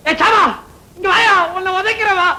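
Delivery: calling out. Acted. Man hailing a passer-by, calling out. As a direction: call him over with a threat.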